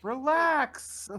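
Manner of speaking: high loud whiny shout; whiny baby voice. Acted. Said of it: "whiny baby voice".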